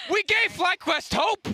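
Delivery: slow, high preacher proclamation; preacher shout. Acted. Hammy callback to pastor act.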